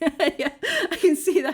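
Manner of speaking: very slow, drawn-out laughing. Reacting to hearing the safety briefing came at the very end, laughing.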